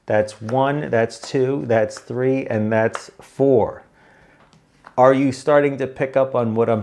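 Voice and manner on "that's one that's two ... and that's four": slow, careful counting out; patient-teacher count with spaced beats; deliberately slow. Shown as a demonstration. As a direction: count it off one step at a time. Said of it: "you gotta talk slow".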